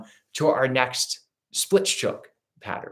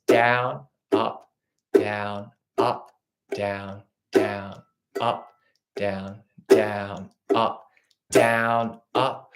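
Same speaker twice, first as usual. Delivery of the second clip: slow strum calls; much slower than usual. Shown as a demonstration. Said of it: "starting with a down up strum".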